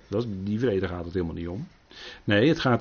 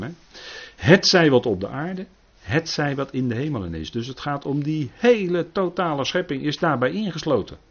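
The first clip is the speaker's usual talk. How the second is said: ordinary talk, nothing marked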